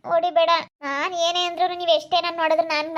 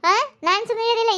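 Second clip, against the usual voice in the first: defiant; 6 semitones higher than usual. Acted. Refusing to stay quiet.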